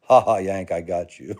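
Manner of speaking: loud mock cackling taunt, breaking into laughter; imitated gloating laugh. Aunt's elderly friend teasing the Yank she out-drank, imitated laughing. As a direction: crow it like a laughing drinking champion. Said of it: "she's just laughing".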